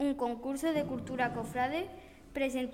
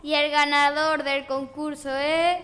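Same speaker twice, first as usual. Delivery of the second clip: hyped winner announcement; 7 dB louder than usual. Real, not acted.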